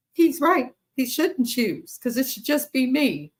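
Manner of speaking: high, mock-weepy mother's voice; mock tearful mom. Quoting the crying mom, in a mock-weepy whine. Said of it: "in tears".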